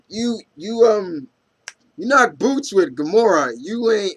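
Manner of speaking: mock teasing. Friend teasing Stark about Gamora, high mock ribbing. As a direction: needle him like a grinning friend.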